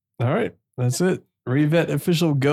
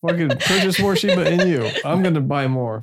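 laughing; 3 semitones higher than usual. Real, not acted. Laughing through pitch.

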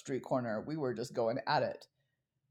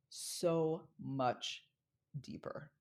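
whisper; 6 dB quieter, much slower than usual. Real, not acted. Dramatic close of speech point.

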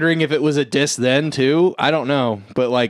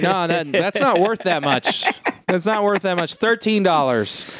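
obnoxious heckler; 5 semitones higher than usual. Retold or imitated. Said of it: "starts being a shithead at this auction".

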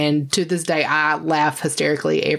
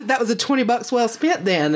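smug quote; 5 semitones higher than usual. Retold or imitated. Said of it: "I was like".

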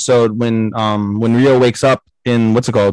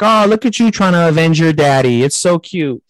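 teasing, patronizing tone; mock condescending; 4 semitones higher than usual. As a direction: talk down to the kid. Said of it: "And Ren's like".

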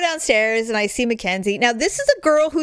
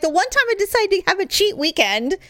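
higher, put-on whining husband voice; whiny husband; 9 semitones higher than usual. Husband whining about his cheat weekend, mock sulky. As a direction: mimic him sulking about his one cheat weekend.

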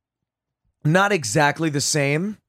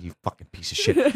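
high-pitched mock outrage at a friend; mock angry curse; 10 semitones higher, 4 dB quieter than usual. Cursing a friend while snatching his pillow, high mock anger. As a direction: snap it up high in fake fury.

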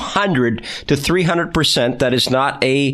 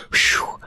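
mock winded whew. Mock winded by long bio.

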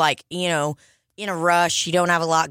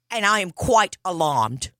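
demonstrating an Australian accent. Shown as a demonstration. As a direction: say it as an Australian would. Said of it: "But in Australia, it would be like".

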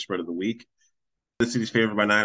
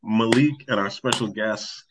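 slow, drawn-out host introduction; sleepy show-intro voice; 3 dB louder, slower than usual. Real, not acted. Host introducing co-host and special guest, slow announcer voice. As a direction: stretch out each name like a late-night announcer. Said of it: "the mash voice right now".

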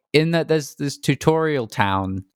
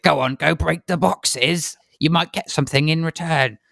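put-on little kid; 4 semitones higher than usual. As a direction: coax like a mischievous child. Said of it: "and he's like".

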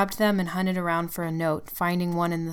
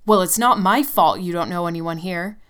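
angry retort; 8 dB louder than usual. Acted. Tim retorts in the fight.

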